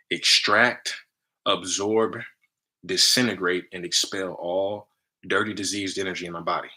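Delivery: steady chant-like command; incantation. Shown as a demonstration. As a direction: recite the programming words deliberately. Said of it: "That phrase exactly".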